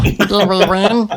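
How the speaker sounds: bad robot voice. Retelling a funny moment, imitating a battle droid: worst battle droid impression. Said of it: "That was the worst battle droid, uh, impression ever".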